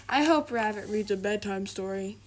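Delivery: a hint of a big bear thinking hopefully; lightly voiced Douglas. Douglas to himself, hoping for a story, lightly voiced. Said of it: "thought Douglas".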